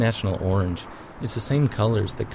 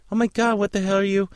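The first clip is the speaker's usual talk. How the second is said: startled shout; 12 semitones higher than usual. Retold or imitated. Stranger shouts at her in sea.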